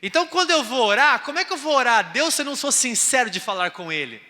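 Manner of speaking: loud, high preacher's build; preaching. Acted. Preacher firing up the congregation, loud and high. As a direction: preach it out to the church.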